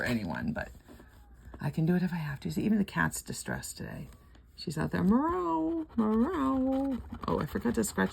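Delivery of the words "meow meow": high, drawn-out imitated meow; mock cat meow. Copying the cat crying outside, a high meow. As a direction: mimic the cat's plaintive cry slowly.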